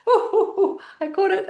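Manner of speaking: high, loud, giggling "ooh"; thrilled to catch it; delighted laugh. Real, not acted. Catching imaginary laughter ball.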